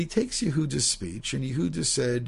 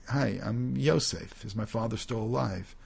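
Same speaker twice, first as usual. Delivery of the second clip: rhetorical and cynical. Acted. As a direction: let the question drip with cynicism. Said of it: "very rhetorical and cynical way".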